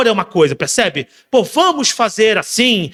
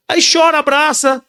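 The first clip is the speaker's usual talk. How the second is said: normal talking voice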